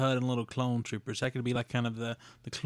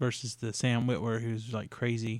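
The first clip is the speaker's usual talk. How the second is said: usual speaking voice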